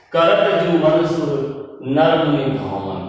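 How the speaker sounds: slow, measured reading of a chaupai; slow verse recital. Shown as a demonstration. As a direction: recite the verse line slowly. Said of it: "यानी कि जो का जो उच्चारण है". (धीमे स्वर में चौपाई पाठ)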